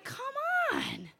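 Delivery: high, crying plea; anguished cry. Retold or imitated. Pleading with fate while trapped: high crying wail. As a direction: wail it out in despair. Despairing plea under the raft.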